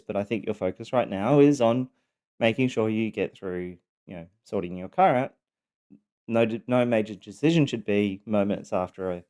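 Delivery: measured, careful, deliberately composed reply; really calm. Retold or imitated. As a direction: retell it trying hard to stay calm. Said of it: "trying so hard to be really".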